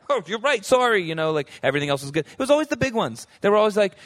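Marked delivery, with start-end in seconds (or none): 0.1-1.0 sheepish apology. Retold or imitated. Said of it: "Israelites were like".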